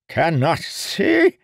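high, loud, slow indignant demand; outraged old man. Acted. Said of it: "the old man demanded".

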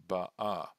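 "ba'a" accented on its last syllable; stress on final A. Shown as a demonstration. Teacher showing the imperfect tense, "ba'a" stressed on the final a. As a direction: put the weight of "ba'a" on the closing a. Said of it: "the accent again must be on the a".

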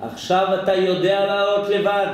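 emphatic clearer restatement; father's lesson restated. Shown as a demonstration. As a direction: say it again firmly for the listener. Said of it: "למטה?".

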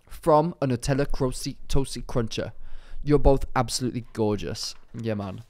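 tentative attempt at a roadman accent; lightly put-on London roadman accent. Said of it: "do it in a roadman".

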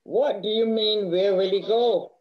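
a touch of impatience, lightly exasperated; losing patience with the questions; impatient. Acted. Older sister losing patience with Esther, mildly exasperated. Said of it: "Ingrid running out of patience now".

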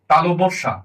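"তালব্য সা" said distinctly, set apart as a model; standard pronunciation. Shown as a demonstration. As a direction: pronounce the letter name "তালব্য সা" carefully for learners. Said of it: "আর এটা হবে".

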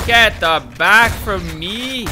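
slow, loud hammed-up French accent. Gamer hamming a French accent at enemies. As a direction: drag it out in a mock French accent. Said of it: "this French accent I'm doing".

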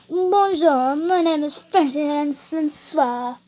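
copied, hammed-up French accent; attempted French accent. Copying the French lesson, in an attempted French accent. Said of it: "That's how you do French".

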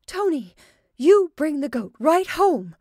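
high, loud, slow call home; calling a child. Acted. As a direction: call the boy home from afar. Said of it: "Missus Kadara called".

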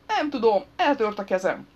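high, loud wail of helplessness; desperate protest. A narrator's reading. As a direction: protest loudly, pitched right up. Injured man protests in quarrel. (magas, kétségbeesett tiltakozás)

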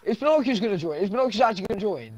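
urgently asking if Pinocchio will join; excited. Real, not acted. Streamer hopes Pinocchio joins.

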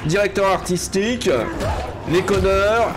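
furious gamer ranting; angry rant. Real, not acted. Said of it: "Parce que je suis énervé".

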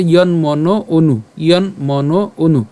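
"ইয়ন মন অনু" slowly as one phrase; joined pronunciation. Shown as a demonstration. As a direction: model "ইয়ন মন অনু" together, vowels drawn out. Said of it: "এটা অবশ্যই একসাথে উচ্চারণ করব". ("ইয়ন মন অনু" একসাথে, টেনে টেনে)

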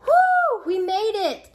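high, loud whoop of relief; whoop, then exclaim brightly high; celebrating. A narrator's reading. Relieved celebration after escape.

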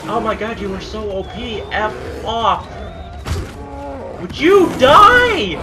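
high frantic screaming; yelling at a bear. Real, not acted. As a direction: scream at it to just die. Desperate fight with bear.

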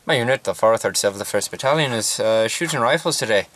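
put-on light Irish accent, loosely held. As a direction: chat casually in a mild Irish accent. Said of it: "I'll be doing an Irish accent right now".

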